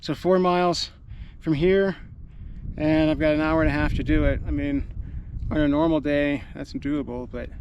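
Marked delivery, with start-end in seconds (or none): 4.5-7.5 winded, trailing off; out of breath. Real, not acted. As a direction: talk while out of breath. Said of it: "I gotta catch my breath".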